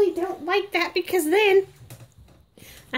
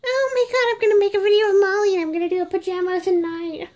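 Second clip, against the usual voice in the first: mocking mom; faster than usual. Reborn doll imitates its owner gushing over filming her, in a mock excited voice. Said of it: "and it's like".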